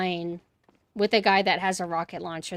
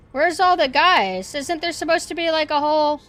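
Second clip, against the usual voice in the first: high, breathless hyperventilating panic; panicking voice; 8 semitones higher, 10 dB louder than usual. Pretend. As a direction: pant out the words in mock panic. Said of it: "Like my panicking voice?".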